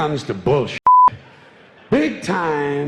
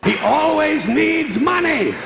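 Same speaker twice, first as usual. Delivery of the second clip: mock disbelief; 13 semitones higher than usual. Mocking religion's money need.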